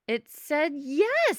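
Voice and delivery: slow, loud, mystical declaration; oracle pronouncement. Acted. Sam announcing the eye's answer to the gang, mystic. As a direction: proclaim it like a fortune teller.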